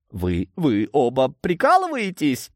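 high, tearful disbelief; nearly sobbing. A narrator's reading. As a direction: plead on the verge of sobs. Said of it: "чуть ли не рыдая выдохнул волшебник". (чуть не плача, высоким голосом)

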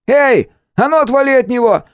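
high booming yell to drive him off; thundering shout. Acted. Khlyupa chasing the stranger from his friend, thundering shout. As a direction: roar at the stranger to back off. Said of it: "прогремел в ушах голос Хлюпы".

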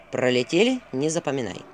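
low, resigned owl; weary sigh. Acted. Owl gives up explaining to Vasilisa, sighing. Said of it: "вздохнул Филин".

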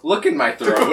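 mock croaky patient. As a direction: lightly play the sick man at the doctor's. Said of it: "walking into the doctor's office and be like".

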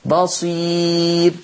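very slow بصير ending on a thin, silent-vowelled راء; pausal form. Shown as a demonstration. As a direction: hold بصير and stop on a light راء. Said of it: "لو وقفت عليها مش هتبقى الراء ساكنة". (بصير بالوقف وترقيق الراء، ببطء شديد)

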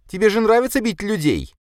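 heated, high-pitched reproach; defiant accusation. A narrator's reading. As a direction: cry it out accusingly. Katya accuses violent brother.

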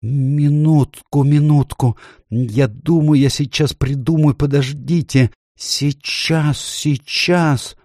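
high, strained faun thinking desperately; agonised muttering. A narrator's reading. Faun straining to think up a plan, muttering. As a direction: mumble in a high voice, begging for a moment. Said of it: "и бормочет".

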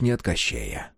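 ordinary delivery

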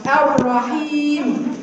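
very slow الرحيم, الرحمن, الرحيم, r widened with one tap; slow correct r. Shown as a demonstration. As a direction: stretch each word, tap the r once. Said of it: "تكرارة واحدة فقط".

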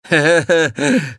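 slow, high, loud sneering chuckle; loud derisive heh-heh-heh; mocking laugh. A narrator's reading. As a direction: laugh at her offer scornfully.

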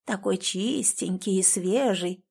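put-on hoarse old woman whispering. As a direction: rasp it out in a leering whisper. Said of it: "хрипло прошептала одна из них".

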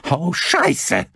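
high cry of alarm; startled, high-pitched outburst; panicked curse. A narrator's reading. Son panics at police boat.

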